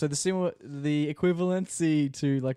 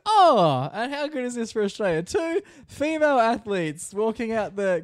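Canadian commentator; 8 semitones higher, 4 dB louder than usual. Retold or imitated. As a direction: gush like a TV commentator. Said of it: "the Canadian person goes".

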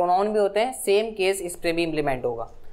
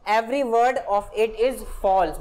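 very slow, each word set apart; slow example read; much slower than usual. Shown as a demonstration. Teacher reading an example sentence to the class, very slow.

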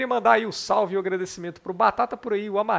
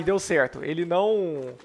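usual speaking voice

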